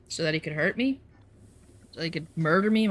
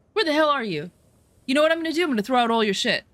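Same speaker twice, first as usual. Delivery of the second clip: higher, louder threatening yell; angry yelling; 7 semitones higher, 4 dB louder, faster than usual. Retold or imitated. Ex yelling threats over the phone, higher and louder. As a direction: escalate into an angry phone rant.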